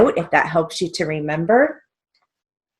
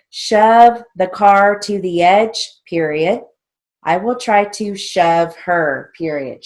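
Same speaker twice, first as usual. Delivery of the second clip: slow, louder drill-sentence dictation; 3 semitones higher, 5 dB louder, slower than usual. Shown as a demonstration. Teacher reading shorthand drill sentences to students, slow dictation. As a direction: read it out deliberately for note-takers.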